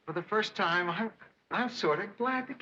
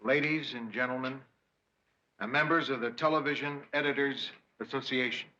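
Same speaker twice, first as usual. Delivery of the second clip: stiff rehearsed speech opening; formal speech; 4 semitones lower than usual. Shown as a demonstration. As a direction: address the room formally. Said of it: "try out his little speech on us".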